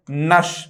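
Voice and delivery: नश with a short neutral vowel, nəsh; नश light and unstressed; short ness ending. Shown as a demonstration. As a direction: say नश, not नेश. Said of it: "न कि नेश".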